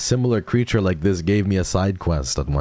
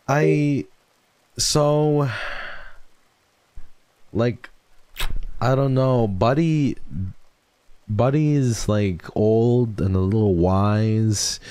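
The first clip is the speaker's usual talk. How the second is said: gushing; 6 semitones higher, slower than usual. Real, not acted. Gushing about Buddy.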